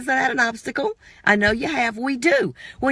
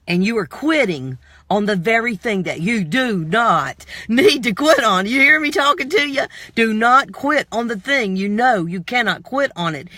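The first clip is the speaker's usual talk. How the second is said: booming motivational speech. Acted. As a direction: push it hard like a coach. Preaching to the viewer.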